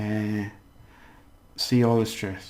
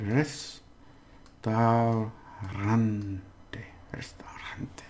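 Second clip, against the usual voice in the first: syllable by syllable; 4 dB quieter than usual. Shown as a demonstration. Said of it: "I would practice that word".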